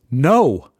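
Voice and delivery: a sharp, firmer no; passionate no. Retold or imitated. Refusing his son's advice, a sudden forceful no. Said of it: "with more passion than I intended".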